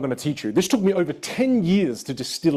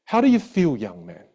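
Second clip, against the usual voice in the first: music teacher's question. Retold or imitated. Teacher turning to student after the song, lightly mimicked question. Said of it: "she turns over to me and she goes".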